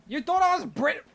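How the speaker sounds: loud, high, indignant questioning; exasperated disbelief. Real, not acted. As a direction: cry out in baffled protest. Exasperated at repeated British guess.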